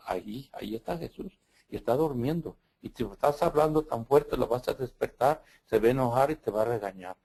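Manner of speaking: lightly voiced little girl, hushed and earnest. Priest voicing a small girl who hushes him near the tabernacle. Girl warns Jesus is sleeping.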